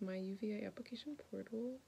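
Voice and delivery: whispered, barely voiced reading; nervous whisper. Real, not acted. Whispering the portal screen while nervously checking UVA. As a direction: hold your breath while reading.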